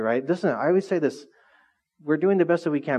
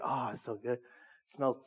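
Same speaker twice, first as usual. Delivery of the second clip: soft, dreamy savoring of a smell; much softer, almost to yourself, enjoying it; 5 semitones lower, 14 dB quieter, slower than usual. Retold or imitated. Savoring wood smell at Home Depot.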